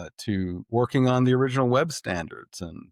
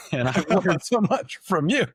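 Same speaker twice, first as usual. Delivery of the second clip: a bright, laughing line, louder and higher; 9 semitones higher, 4 dB louder than usual. Real, not acted. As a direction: laugh through it as you tease your boss. Teasing his boss, both laughing.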